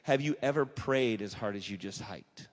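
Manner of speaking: lightly voiced guide, pointed question; Ray challenges him on the mountain, lightly voiced; guide's challenge. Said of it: "and he goes".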